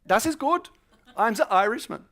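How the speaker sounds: high-pitched, pleased German teacher; mock German accent. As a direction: confirm it in a put-on German accent. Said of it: "everyone thought I was a German".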